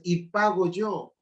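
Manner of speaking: slow proud son; lightly voiced proud son; quoting son. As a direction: savor "Y pago yo" slowly. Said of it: "y me dice".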